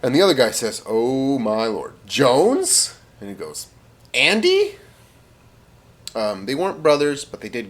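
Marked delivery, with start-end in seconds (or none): 0.9-3.0 slow, drawn-out disbelief; astonished recognition. Acted. British soldier recognizing his childhood friend, slow astonishment. 4.1-4.8 very high-pitched disbelief; astonished recognition. Acted. Jones to his childhood friend mid-battle, high squeaky surprise.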